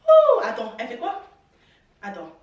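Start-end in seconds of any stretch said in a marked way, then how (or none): 0.1-0.7 high, loud laughing oh; laughing surprise. Real, not acted.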